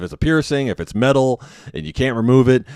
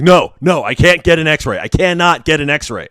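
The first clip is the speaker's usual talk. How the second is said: panicked refusal; 7 semitones higher, 6 dB louder than usual. Retold or imitated. Patient refusing the x-ray.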